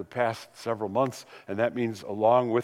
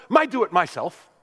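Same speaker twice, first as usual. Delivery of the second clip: put-on higher, louder little-boy insistence; lightly voiced stubborn three-year-old; insistent toddler; 5 semitones higher, 4 dB louder than usual. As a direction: grandson refusing help, mock toddler voice.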